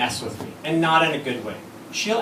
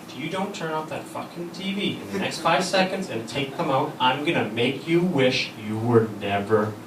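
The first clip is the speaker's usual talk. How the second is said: threatening wife; 3 semitones lower than usual. Retold or imitated. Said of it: "Which of course means".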